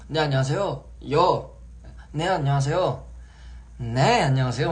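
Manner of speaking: 또렷하고 힘 있는 인사 반복; 자신 있게 또박또박 연습; practiced phone voice. Shown as a demonstration. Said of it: "막 이러는 거지". (반복 연습하는 또렷한 전화 목소리)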